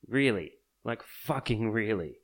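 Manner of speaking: a loud, incredulous Really; exasperated outburst. Real, not acted. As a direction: throw it out in disbelief. Exasperated rant at anti-vaxxers.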